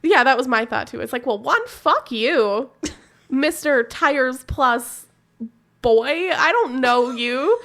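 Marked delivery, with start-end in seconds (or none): 1.2-7.6 slow, sarcastic mock telling-off; mock retort. Sassing the mechanic in a mock retort. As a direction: drag it out with scorn.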